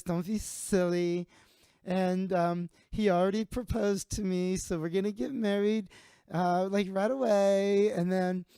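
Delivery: high, giddy, coy woman's voice; giddy Sarah. Retold or imitated. Sarah tells the bar she is pregnant, high and giddy. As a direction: gush the news like a silly girl.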